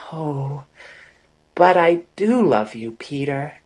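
Amory, softly, rising on "do love you"; cried softly. A narrator's reading. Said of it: "she cried softly".

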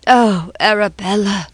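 put-on grieving old man cries out "Oh, Arabella"; wailing. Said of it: "broke forth into a low wail".

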